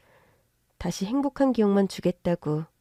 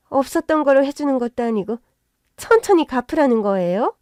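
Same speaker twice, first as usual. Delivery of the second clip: indignant surprise; 4 semitones higher, 5 dB louder than usual. Acted. Mother-in-law protests the offer.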